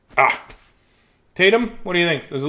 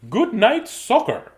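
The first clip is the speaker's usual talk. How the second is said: announcing the title; 8 semitones higher, slower than usual. Shown as a demonstration. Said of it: "by request".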